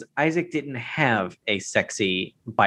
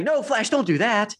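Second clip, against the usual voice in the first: mock pleading; 11 semitones higher than usual. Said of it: "I was just like".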